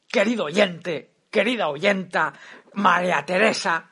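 lightly voiced old Spanish pundit; Jaime Peñafiel impression. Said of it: "me ha salido un poco Peñafiel".

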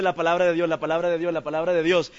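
low, samey drone, phrase after phrase; monotonous repetition. Shown as a demonstration. Preacher showing the congregation how repetition would bore, monotonous drone. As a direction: repeat it on a low, unvarying loop.

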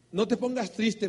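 imitando a quien rechaza el plan; consolador. Retold or imitated. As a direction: dile que no se apene. Retells prospect's consoling refusal. (consuelo leve al rechazar el plan, en tono citado)

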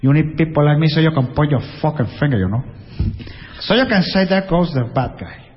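lightly voiced gangster with a Cuban accent; Cuban-accented gangster swagger in English; Pacino as Scarface. Gangster lecturing the people around him, lightly voiced Cuban gangster impression. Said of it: "Scarface, que ya era un poco".

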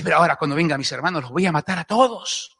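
low, fast threat; mock-menacing resolve, kept under the voice; acted vengeful threat. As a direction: rattle it off low, as if plotting revenge. Voices Joseph's imagined vengeful threat.

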